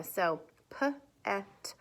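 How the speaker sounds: p-et split into p and et; sounding out words. Shown as a demonstration. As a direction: break p-et into onset and rime. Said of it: "I sounded it out up here".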